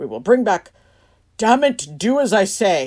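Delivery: loud, deliberate, all-bark barking yell. Imitating a candidate as a grumpy dad barking orders: imitating Trump yelling. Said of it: "just yell at you like that".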